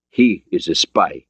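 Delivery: put-on slow, accented irony; measured words with a touch of irony; ironic. Borodin introducing Ryan to Mancuso, ironic. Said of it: "Borodin said with palpable irony".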